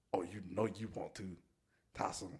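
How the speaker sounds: soft, low, teasing murmur; sultry coaxing. Retold or imitated. Friend coaxing Tyson to drink, soft teasing murmur. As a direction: coax him softly like a tempter. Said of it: "he was like".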